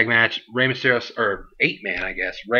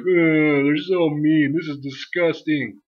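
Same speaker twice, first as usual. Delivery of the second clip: higher, louder prissy gasp of outrage; mock offended fan; 5 semitones higher, 3 dB louder, slower than usual. Vlogger mocking fans shocked by Punk and Heyman, higher prissy outrage. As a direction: clutch pearls with the voice.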